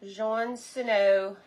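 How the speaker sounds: drawn-out syllable-by-syllable try at a name; slow careful guess. Shown as a demonstration. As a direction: spell the name out slowly in sound. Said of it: "Try it. Guess".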